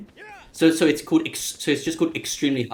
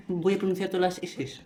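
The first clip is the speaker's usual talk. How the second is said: sounding out every s, mocking; fussy central Spanish, all s; mock Castilian accent; 4 semitones higher, 4 dB quieter than usual. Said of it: "los del centro les gusta".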